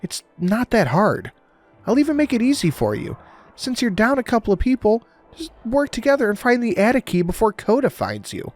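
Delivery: put-on accent dropped, cold and taunting. A narrator's reading. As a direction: drop the act and mock him. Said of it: "the accent was gone, along with the cheer".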